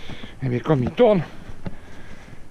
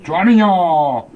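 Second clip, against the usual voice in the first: slow, drawn-out coaxing; coaxing dog; 6 dB louder, much slower than usual. Real, not acted. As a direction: coax the dog, slowly. Soothing the dog.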